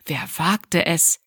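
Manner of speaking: slow, affronted wer wagte es; who dares, drawn out slowly; indignant question. A narrator's reading. Abby startled by a whistle from the street, slow and affronted.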